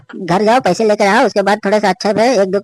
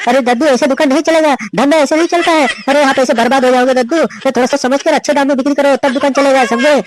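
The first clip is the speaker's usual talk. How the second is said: हैरान होकर डांट; 5 semitones higher than usual. Acted. दद्दू के दाम पर चौंककर डांटना.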